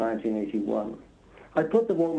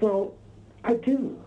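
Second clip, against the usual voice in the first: imitating the producer, higher, pitch rising; spring the surprise answer up high; mock surprise; 8 semitones higher, slower than usual. Retold producer's surprising reply.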